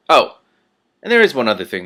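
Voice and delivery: silky, menacing ruler with veiled threats; lightly voiced patrician. The Patrician threatening Rincewind, silky menace. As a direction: purr the threat politely. Patrician calls him back.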